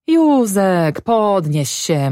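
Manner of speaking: drawn-out call, starting high; acted wifely summons; coaxing wife. A narrator's reading. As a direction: urge your husband up in a lightly voiced woman's tone. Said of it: "mówiła gospodyni".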